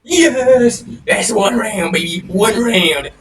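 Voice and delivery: excited cheer. Real, not acted. Round won.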